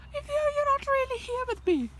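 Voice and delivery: teasing eerie high voice; mock spooky aside. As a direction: say it like a ghostly whisper-shout. Talking to viewer, sudden odd voice.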